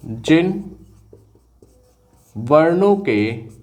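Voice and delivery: slow, word-by-word with long pauses; slow dictation. Shown as a demonstration. Teacher slowly dictating the definition to students. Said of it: "याद रखिएगा".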